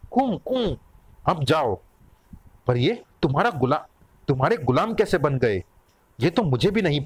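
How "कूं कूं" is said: high-pitched imitated whining; two high canine whimpers; wolf whimpers. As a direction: whine like a submissive wolf. Wolves whimper in greeting.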